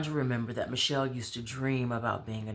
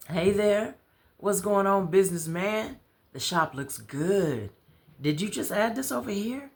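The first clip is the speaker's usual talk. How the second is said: Dob greeting; 8 semitones higher, 4 dB louder than usual. Acted. Dob greeting Ahmad in the shop.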